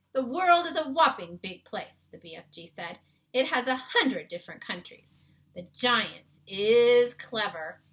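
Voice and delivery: put-on a kindly giant explaining his world to a girl; BFG voice. A narrator's reading. BFG's lines in story.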